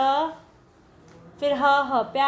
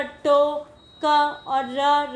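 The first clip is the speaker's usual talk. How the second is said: slow letter sounding; much slower than usual. Shown as a demonstration. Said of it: "तो हम टोकरी कैसे लिखेंगे".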